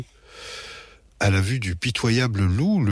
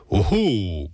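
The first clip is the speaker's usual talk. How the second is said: croaking dad. A narrator's reading. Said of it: "croasse papa".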